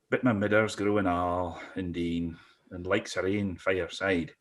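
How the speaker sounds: reciting a Scots poem; dramatic poetry reading; poem recital. Acted.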